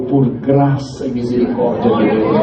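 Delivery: slow, heartfelt testimony of grace; heartfelt joy. Retold or imitated. Washerwoman answering whether she is a believer, heartfelt. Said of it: "veio da alma dela".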